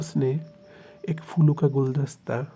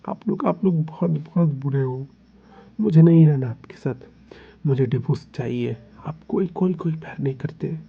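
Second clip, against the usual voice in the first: hurt angry outburst. Acted. Hurt partner accuses, demands divorce.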